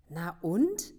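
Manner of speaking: lauter, abschätzig gerufen; laut dazwischengerufen. A narrator's reading. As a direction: ruft aus der Menge dazwischen. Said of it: "hallte es aus der Versammlung". (die Versammlung ruft Frank lauter und abschätzig zu)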